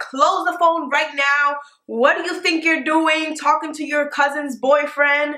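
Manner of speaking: acted-out, mock scolding, yelling. Retelling how her cousin's mom caught them on the phone, imitating a mother yelling. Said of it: "she comes upstairs yelling at her".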